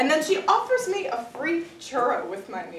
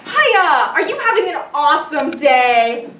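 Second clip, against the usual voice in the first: put-on counter girl's gushing greeting; 3 semitones higher, 9 dB louder than usual. Cashier greets him at the counter, gushing. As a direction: greet like a relentlessly chipper fast-food cashier. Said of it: "the girl behind the counter goes".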